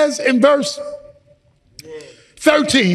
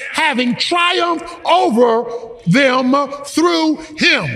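emphatic scripture preaching, phrase by phrase; fervent preacher expounding a verse; forceful preaching. Real, not acted. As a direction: drive each point home to the congregation.

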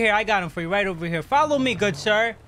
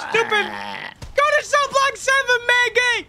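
barked order; 10 semitones higher than usual. Acted. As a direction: bark the order at the inmates. Barking order at inmates.

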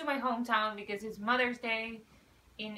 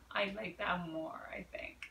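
whispered aside; 5 semitones lower, 7 dB quieter than usual. Real, not acted. Aside about ship name.

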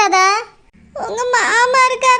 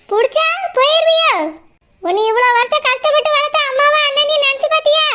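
scolding sister-in-law; 2 semitones higher than usual. Acted.

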